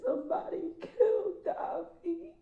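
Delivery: real sobbing as she repeats it. Real, not acted. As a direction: cry it out, slow and breaking. Mother's news quoted through tears.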